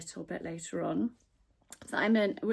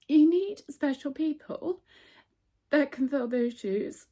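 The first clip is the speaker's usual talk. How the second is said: emotional; 5 semitones higher, 4 dB louder than usual. Real, not acted. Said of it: "I don't know why I'm getting emotional".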